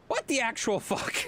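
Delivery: disbelieving laugh through the words; laughing disbelief. Retold or imitated. Boyfriend finding the lost lemonade mix, laughing in disbelief. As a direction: laugh out "What the actual fuck?".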